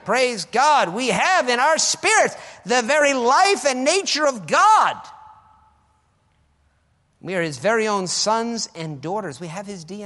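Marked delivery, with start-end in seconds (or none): 0.1-5.0 loud, high sermon exhortation; full-force preaching. Acted. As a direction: drive it home to the congregation.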